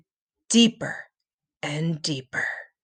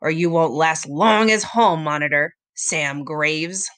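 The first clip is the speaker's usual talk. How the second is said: put-on growling old man; 4 semitones lower than usual. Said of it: "Mister Nakobe growled".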